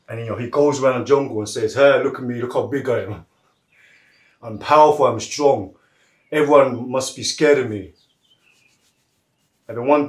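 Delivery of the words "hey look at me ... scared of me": lightly voiced bragging big beast; boastful elephant. Telling the jungle how powerful he is, boastful. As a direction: play a mildly puffed-up elephant.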